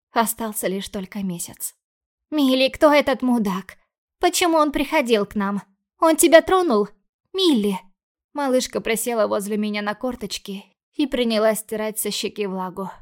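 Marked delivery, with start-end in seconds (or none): 2.3-7.8 put-on higher and louder, anxious girl; frightened little sister. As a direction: pepper her sister with scared questions. Worried little sister questions.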